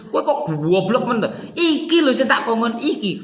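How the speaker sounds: playful exasperated reprimand; mock scolding. Shown as a demonstration. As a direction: scold the helper who brought the wrong one. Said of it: "agak marah".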